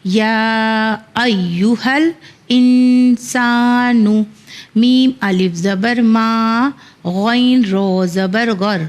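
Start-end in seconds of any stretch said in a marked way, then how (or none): 0.0-4.2 slow, chanted verse recitation; slow Quranic chant. Shown as a demonstration. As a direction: recite the verse slowly and melodically. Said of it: "کوشش کریں گے کہ ایک ساتھ پڑھنے".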